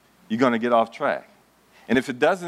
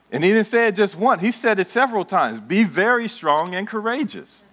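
rising fervor; 8 semitones higher than usual. Acted. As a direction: press the command home. Preacher repeats the charge louder.

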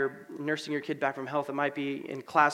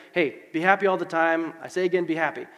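loud, peppy mock cheer; mock cheerfulness; 3 semitones higher, 5 dB louder than usual. Preacher mimicking what Paul isn't saying, mock cheerful. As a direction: parody a relentlessly happy pep talk. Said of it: "He's not saying".

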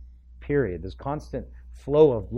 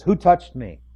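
Jesus asking; 5 semitones higher, 9 dB louder than usual. Acted. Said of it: "it says".

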